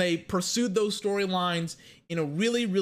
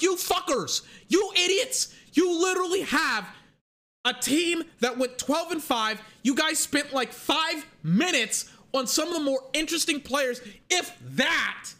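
ranting at the producers; 4 semitones higher than usual. Retold or imitated. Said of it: "I'm like".

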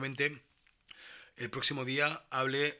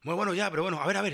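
placating clerk; 5 semitones higher, 3 dB louder, faster than usual. Retold or imitated. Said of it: "comiéndome la polla".

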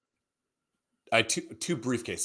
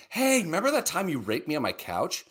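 high teasing lilt; playful high-pitched question; mock-sweet lilt; 6 semitones higher than usual. Teasing fake-sweet question to friend.

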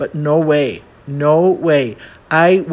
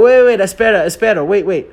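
flustered correction; 5 semitones higher, 5 dB louder, faster than usual. Retold or imitated. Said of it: "correcting himself in a rush".

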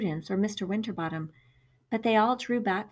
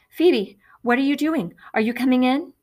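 calling from the door; 4 semitones higher, 7 dB louder than usual. A narrator's reading. Mother calls from the door.

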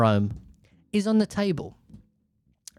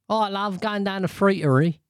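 higher-pitched put-on voice; mock friterie fan; 7 semitones higher, 3 dB louder than usual. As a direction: play someone keen on their night out. Acts out someone using the new word.

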